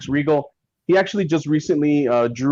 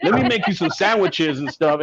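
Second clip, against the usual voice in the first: put-on gruff Mississippi accent; 6 semitones higher than usual. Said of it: "he's got that gruff accent".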